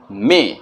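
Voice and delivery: "मे" as English May, short e vowel; "मे" with a single clean e vowel; correct May. Shown as a demonstration. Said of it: "सही pronunciation करते जाना है".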